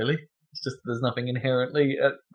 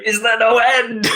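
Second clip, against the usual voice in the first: dramatic French lament, higher and slow; French accent; 12 semitones higher, 6 dB louder, slower than usual. Retold or imitated. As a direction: sigh it out like a weary Frenchman. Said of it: "In a French accent".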